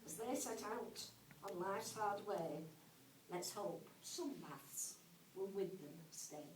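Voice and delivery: measured rhyming verse with pauses at line ends; comic poem recital. Acted. Teacher recites an ode on a maths lesson, comic poem recital. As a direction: recite it as a light, rhythmic ode.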